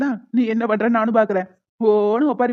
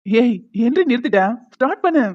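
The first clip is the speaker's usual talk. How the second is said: urging loudly; 4 dB louder than usual. Acted. Husband urging his wife to start scolding. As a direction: prod her to start again.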